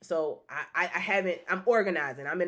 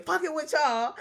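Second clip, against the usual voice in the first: laughing; 9 semitones higher than usual. Real, not acted. Joking with viewers.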